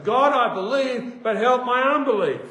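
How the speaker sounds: fervent plea. Acted. Believer in pain praying to God, fervent cry. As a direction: call out the prayer with force. Acts out desperate prayer from Mark.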